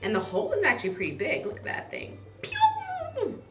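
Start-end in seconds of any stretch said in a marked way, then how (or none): 2.4-3.4 high squeaky pew sound. Acted. Sound effect for a big hole.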